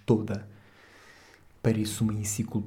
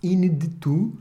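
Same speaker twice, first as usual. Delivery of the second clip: excited repeat; 7 semitones higher, 4 dB louder, slower than usual. Real, not acted. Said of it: "algo inédito".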